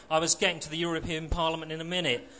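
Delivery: fast, hurried impatience; impatient. Acted. Marxist hurrying to win Johnny back, fast and impatient. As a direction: rush through it, fed up. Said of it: "said impatiently".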